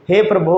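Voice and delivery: हे प्रभु with प्रभु stretched long; teacher demo of a prolonged प्रभु; drawn-out he prabhu. Shown as a demonstration. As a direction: hold प्रभु out long, lamenting. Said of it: "कुछ ज़्यादा लंबा खींचेंगे".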